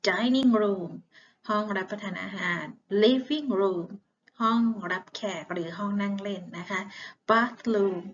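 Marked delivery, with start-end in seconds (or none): 0.1-0.9 slow, loud, careful "Dining room" for the class to copy; clear model word. Shown as a demonstration. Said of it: "นักเรียนของครูออกเสียงดังมาก". 7.3-8.0 "Bathroom" said louder with a falling end, as a model; clear model word. Shown as a demonstration. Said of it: "นักเรียนของครูออกเสียงดังมาก".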